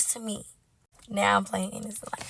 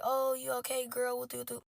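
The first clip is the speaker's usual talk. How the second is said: soft, higher-pitched imitation of concerned friends; mock concern; 4 semitones higher, 7 dB quieter than usual. Girls texting her after the breakup, soft mock concern. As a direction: check in softly, mockingly.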